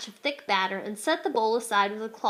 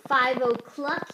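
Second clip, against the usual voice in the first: slow, drooling wolf voice; slow hungry wolf; slower than usual. Acted. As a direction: savor each word like a hungry wolf. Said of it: "drooling down his furry chin".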